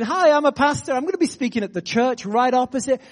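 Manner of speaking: retold announcement. Pastor inviting the whole bar to church, announcing. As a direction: announce it cheerily to everyone. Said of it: "I just announced in French".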